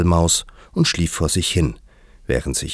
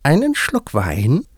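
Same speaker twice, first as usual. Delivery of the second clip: slow, high, inviting question; high-voiced coaxing invitation; 10 semitones higher, 3 dB louder, slower than usual. A narrator's reading. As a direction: offer it invitingly, drawn out with a rise. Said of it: "fragte der Schnapphase einladend".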